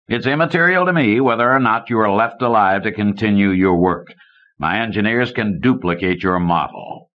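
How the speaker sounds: a hint of a cool, menacing tycoon; villainous banker. Banker Conant coolly threatens the scientist Kidder, lightly voiced menace.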